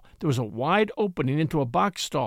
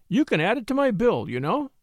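sweetly; 4 semitones higher than usual. Acted. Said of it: "she said sweetly".

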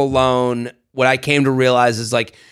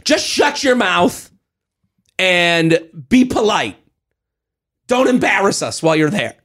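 scolding fellow American; 3 semitones higher than usual. Retold or imitated. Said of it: "Americans telling Americans".

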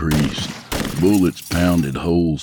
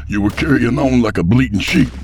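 teasing; 8 semitones higher, 4 dB louder, faster than usual. Acted. Teasing memory.

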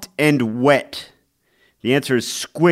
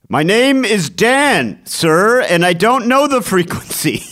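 Dan Rather impression; 9 semitones higher, 5 dB louder than usual. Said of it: "terrible Dan Rather impression".

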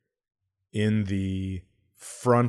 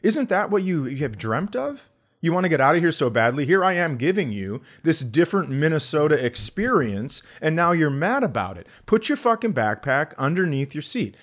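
higher, louder, fast mock-furious rant; hammed-up rant; 6 semitones higher, 5 dB louder than usual. Comic to rude seatmate on plane, fast loud mock rant. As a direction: unload on him, fast and loud, half joking. Ranting at seatmate about Minnesota.

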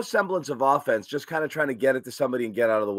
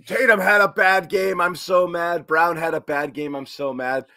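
mock whiny fan, louder and higher up top; 3 semitones higher, 4 dB louder than usual. Mocking fans who sulk after one loss, in a whiny mock voice. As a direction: pout it out like a sulking fan. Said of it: "it always comes back to not like".

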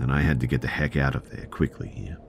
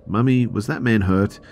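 put-on high, louder childlike questioning; little girl; 8 semitones higher, 5 dB louder than usual. Little girl to her mother, innocent questioning. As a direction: lightly voice a small child asking Mummy. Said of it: "My little girl asked".

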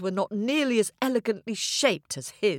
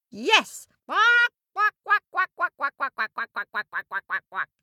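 quacking ducks; 8 semitones higher than usual. Acted. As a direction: quack along in agreement. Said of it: "agreed the ducks".

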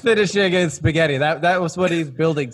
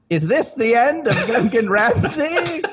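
dramatic chef; 9 semitones higher, 3 dB louder, slower than usual. Acted. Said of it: "Gungan Ramsay's like".

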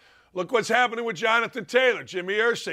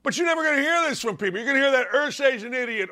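normal talking voice

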